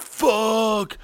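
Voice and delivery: high panicky mock wail; freaking out. Waiter panicking backstage over chicken grease, high squeal. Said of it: "freaking out".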